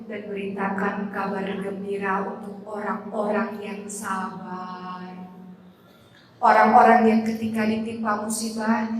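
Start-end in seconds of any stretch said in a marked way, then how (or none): 0.1-5.1 tender. Acted. Gentle translation after the verse.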